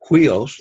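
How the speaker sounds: "Huios" begun with an aspirated h, hwee-os; rough breathing. Shown as a demonstration. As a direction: demonstrate the h at the front of "Huios". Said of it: "it's a rough breathing".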